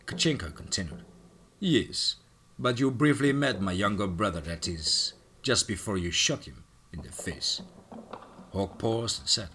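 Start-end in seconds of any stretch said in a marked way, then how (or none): 1.6-7.6 lightly voiced Russian accent; a hint of a sly Russian villain. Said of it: "his thick Russian accent".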